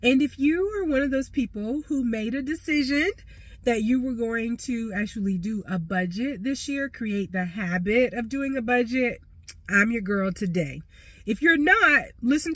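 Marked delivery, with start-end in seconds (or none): 0.0-10.8 blocked nose, stuffy nasal voice. Real, not acted. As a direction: talk through a stuffy nose. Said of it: "my nasally voice".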